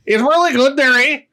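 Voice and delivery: high, hammed-up Newfoundland-Minnesota lilt; singsong mock Newfie accent; Fargo accent drifting Newfie. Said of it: "Newfoundland now?".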